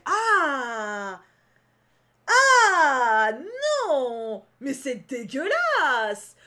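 long loud cries of revulsion; disgusted outburst. Real, not acted. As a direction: wail in disgust, dragging the words out. Disgusted reaction to the scene. (cri de dégoût long et fort)

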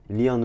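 Learn said as "leern", with an ee; French-accented "leern" for Learn; mispronounced Learn. Real, not acted. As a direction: say Learn with a long ee vowel. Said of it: "pas Learn".

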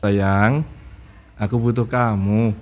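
soft, slow whispered "Sayang, aku butuh kamu"; tender whisper. Shown as a demonstration. Host whispers a romantic line to the camera as a partner, tender whisper. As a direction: breathe it to a loved one. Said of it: "seakan-akan betul ngomong sama pasangan".

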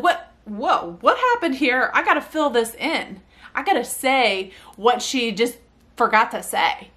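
mildly acted puzzled reaction; babies' surprise. Mother imagines babies noticing the dropped word, surprised. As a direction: voice a baby's startled double-take. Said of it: "they'll be like".

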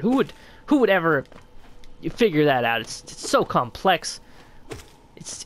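mock self-defence, dripping sarcasm; sarcastic exaggeration. Streamer mocking their own poor strategy to viewers, sarcastic. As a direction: oversell how impossible it is. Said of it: "Of course, I'm exaggerating".

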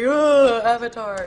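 put-on loud whiny Australian accent. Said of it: "Was that a little Australian accent I heard".

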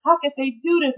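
retold grieving lament. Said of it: "crying and crying, like".

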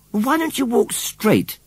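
high, drawn-out cross question. A narrator's reading. Boy tackles the scarecrow about his walking, cross. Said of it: "asked John crossly".

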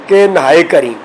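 "ਨਹਾਏ" with an h after the n; h under n. Shown as a demonstration. Teacher models the verse, h sounded in "ਨਹਾਏ". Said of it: "ਨੰਨੇ ਥੱਲੇ ਵੀ ਹਾਏ ਦਾ ਉਚਾਰਨ ਕਰਨਾ ਹੈ".

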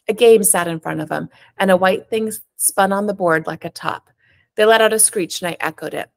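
an author reading her own novel aloud, steady and even; story narration. A narrator's reading. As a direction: tell it like a first-person story at a reading.

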